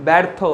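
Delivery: ব্যর্থ as 'baertho', the first vowel like English 'bat'; demonstrated pronunciation. Shown as a demonstration. Teacher showing students how it is pronounced, ব্যর্থ with open 'ae'. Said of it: "অর্থাৎ এর উচ্চারণ হবে".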